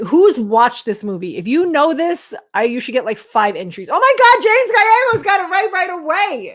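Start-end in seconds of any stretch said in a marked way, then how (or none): 3.9-6.5 1 shocked disbelief. Real, not acted. Stunned someone got it right.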